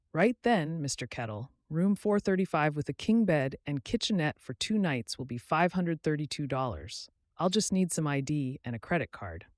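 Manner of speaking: a hint of a businesslike receptionist; lightly voiced desk clerk. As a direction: read the bill out politely. Sarah states the price.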